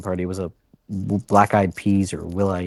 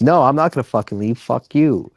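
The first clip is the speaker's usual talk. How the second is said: higher, quick retold refusal; mock defiance; 4 semitones higher, 4 dB louder than usual. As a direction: imitate someone digging their heels in. Acts out Charlie refusing to leave.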